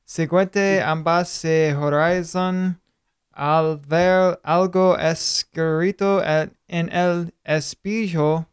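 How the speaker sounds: very slow, careful word-by-word reading; laboured beginner reading aloud; halting Spanish reading. Real, not acted. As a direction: pick through the foreign words slowly.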